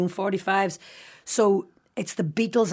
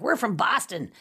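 put-on schoolgirls faking an American accent; mock American accent, lightly done; 3 semitones higher than usual. Schoolgirls fooling Donegal lads they're Yanks, playful fake American accent. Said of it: "let on to be American".

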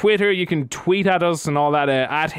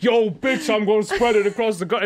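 hammed-up American rapper voice; American rapper accent; 6 semitones higher than usual. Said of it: "'cause for a second you're like".

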